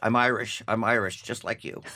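lightly faked Irish accent; Teaneck Irish accent. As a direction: plead kinship in a half-hearted Irish brogue. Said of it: "my Teaneck Irish accent".

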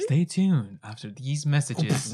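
slow radio announcer voice. Acted. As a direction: read it like a station break. Announcer break line.

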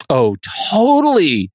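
put-on Valley Girl "totally" with fry. Shown as a demonstration. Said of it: "I just did".

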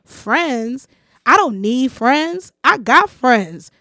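imitating a man's drawn-out, scornful comeback; retold contempt, slow and emphatic, rising at the end; scornful retort. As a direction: build from disbelief to a loud dismissal. Retold man scorning her friendship.

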